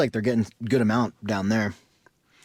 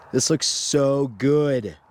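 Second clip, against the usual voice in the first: impressed; 3 semitones higher, much slower than usual. Shown as a demonstration. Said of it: "we're just gonna do this in amazement".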